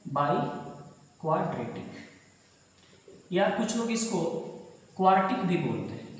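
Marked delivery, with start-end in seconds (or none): 0.1-1.9 बाइक्वाड्रेटिक said very slowly, each syllable drawn out; बाइक्वाड्रेटिक stretched out syllable by syllable like a teacher introducing a word; slow clear naming. Shown as a demonstration. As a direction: say बाइक्वाड्रेटिक slowly so students catch the new term. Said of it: "क्या बोलते हैं?".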